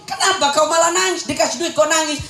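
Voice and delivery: high-pitched acted exasperated question; baffled questioning. Husband asking his wife why she cries, baffled. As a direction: question a crying wife in disbelief.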